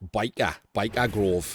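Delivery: put-on northern Geordie accent. Taking the piss out of a theme tune's title: Geordie accent. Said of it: "we say it in a in a Geordie accent".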